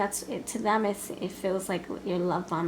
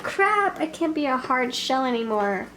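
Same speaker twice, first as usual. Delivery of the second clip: mock dismay. Voicing the reluctant lover.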